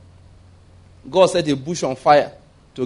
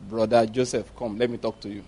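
gentle angel voice; 6 semitones lower, 7 dB quieter than usual. Acted. Angel speaks to Joseph.

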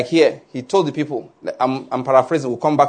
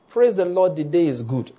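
gentler morning greeting. Acted. Wife rewords her greeting to spare husband, toned down. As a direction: greet him mildly, letting the voice drop. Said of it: "Just say it in another way".

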